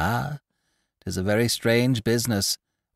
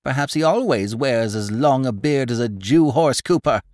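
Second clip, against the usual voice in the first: much higher and louder, scornful teasing; mocking old gossip; 8 semitones higher, 3 dB louder than usual. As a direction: ridicule the know-it-all for the crowd. Pundor mocks the horse cooper.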